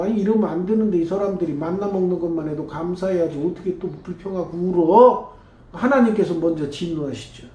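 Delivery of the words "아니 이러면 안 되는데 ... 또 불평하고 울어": fast, indignant disbelief; exasperated Moses. Retold or imitated. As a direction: Moses can't believe the complaining. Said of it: "모세가 생각하기에도".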